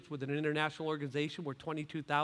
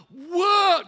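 loud, raised, drawn-out exclamation; amazed audience; 12 semitones higher, 15 dB louder than usual. Retold or imitated. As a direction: play a crowd wowed at the unveiling. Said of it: "the audience would go".

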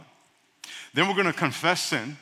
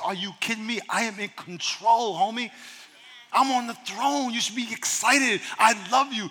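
God reassuring; 4 semitones higher than usual. Retold or imitated.

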